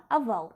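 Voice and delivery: "aval" again with an open a for the o; Russian unstressed o. Shown as a demonstration. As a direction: repeat "aval", a not o. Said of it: "c'est plutôt A".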